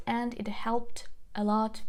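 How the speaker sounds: unvoiced aside whisper. Real, not acted. Teacher telling students, whispering. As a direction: drop to a breathy whisper. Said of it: "whisper heard".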